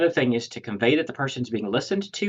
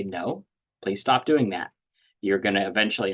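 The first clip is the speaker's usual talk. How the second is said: put-on calm with child. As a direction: calmly ask a child to stop, no edge. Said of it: "you know, very calmly".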